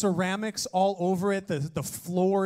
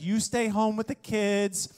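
lightly voiced shopping wife; faster than usual. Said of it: "Like Hannah at Target".

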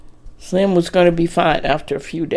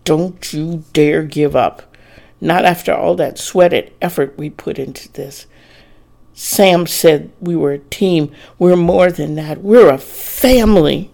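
grit your teeth and growl it; growled through clenched teeth; 5 dB louder than usual. Acted. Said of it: "Dory growled through clenched teeth".

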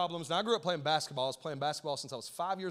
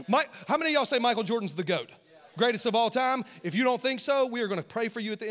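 hyped crowd call; 4 semitones higher, 5 dB louder than usual. Real, not acted.

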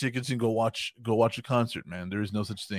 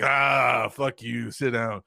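gruff shout; 4 dB louder, much slower than usual. Retold or imitated. Redoing Rob Zombie's line to the hosts, with a loud shouted curse. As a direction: bark the "fuck" loud, then settle. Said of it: "he said it just like that".

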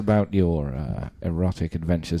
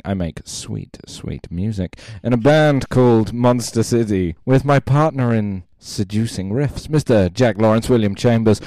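saucy voice. Acted. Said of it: "do this in a saucy voice".

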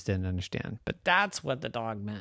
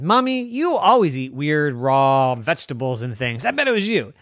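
accusing; 3 semitones higher, 6 dB louder than usual. Acted. Rose accuses mommy.

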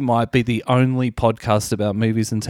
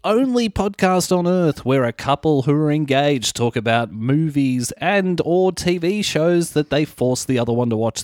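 show intro. Acted. Show's opening announcement.

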